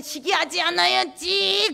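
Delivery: high, slow, put-on voice of a self-righteous believer; prim, high mock vow; mock pious resolve. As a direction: parody your old self promising to be good. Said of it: "그러면 옛날에는".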